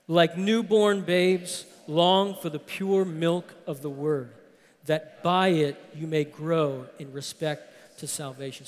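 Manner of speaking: congregation reading aloud together; many voices in unison. Real, not acted. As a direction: read it aloud as a group. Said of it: "all together".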